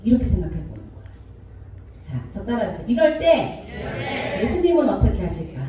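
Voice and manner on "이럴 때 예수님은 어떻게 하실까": deliberate recitation to be repeated; call-and-repeat. Shown as a demonstration. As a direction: lead the congregation phrase by phrase. Leading congregation to repeat after speaker.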